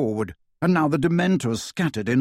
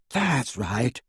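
encouraging. A narrator's reading. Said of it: "said Luna encouragingly".

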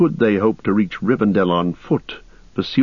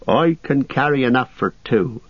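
higher-pitched, stout defiance; defiant; 4 semitones higher than usual. Acted. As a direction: insist on it, pitch raised. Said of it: "said Sam defiantly".

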